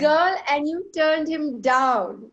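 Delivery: dramatic read-out. Real, not acted. Host ends the teasing read-out.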